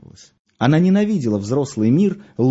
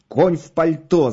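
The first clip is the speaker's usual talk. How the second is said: higher, drawn-out irritated jibe; annoyed; 5 semitones higher, 4 dB louder, slower than usual. A narrator's reading. Beketov fumes while watching the clock, annoyed. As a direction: spit out the jibe slowly, mildly cross. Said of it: "злился Бекетов".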